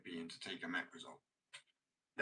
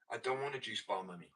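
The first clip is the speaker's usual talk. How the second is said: put-on higher, louder posh child act; posh mummy's boy; 4 semitones higher, 4 dB louder than usual. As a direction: whine to mummy like a posh kid. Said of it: "speak a little bit smarter and posher".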